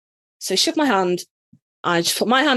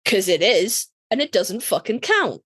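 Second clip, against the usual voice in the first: sassy; 3 semitones lower, slower than usual. Retold or imitated. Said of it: "sass the ever-loving fuck out of him".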